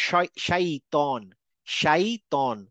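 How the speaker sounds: শাইতন with clear sh and long open ai; Arabic pronunciation. Shown as a demonstration. Teacher modelling the Arabic word for students. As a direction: say শাইতন slowly, sh then open ai. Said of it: "আসলে শয়তান না".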